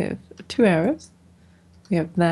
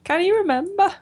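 put-on high, playful Scottish accent; 12 semitones higher, 4 dB louder than usual. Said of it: "That's enough of my Scottish accent".

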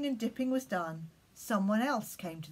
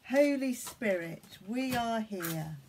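prayer. Acted. Leads children in prayer.

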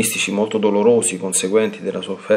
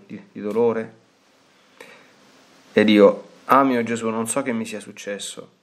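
devotional reading; 3 semitones higher than usual. Acted. Priest reading the diary to the faithful, solemn and measured. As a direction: read each line reverently, like a prayer. Reads aloud a mystic's diary.

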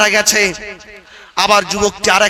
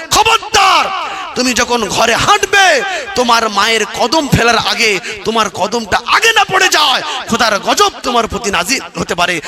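stern warning shout; 2 semitones higher than usual. Acted. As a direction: warn the listeners sharply. Preacher voices stern warning.

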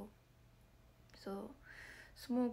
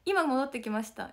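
innocent excuse; 3 semitones higher, 5 dB louder than usual. Retold or imitated. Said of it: "みたいな言って".

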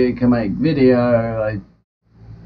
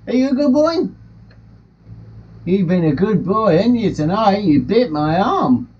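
higher, sing-song talk to a bird; pet talk; 6 semitones higher than usual. Real, not acted. Talking to the parrot about its behaviour, pet talk. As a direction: coo at a pet, pitch swooping up.

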